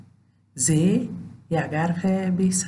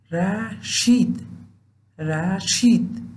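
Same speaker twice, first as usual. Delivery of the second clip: slow example word; 3 semitones higher, much slower than usual. Shown as a demonstration. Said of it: "مانند".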